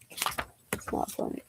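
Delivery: slow, voiceless whisper; deadpan whisper. Real, not acted. Judging the sheep joke, deadpan whisper. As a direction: drop it flatly under your breath.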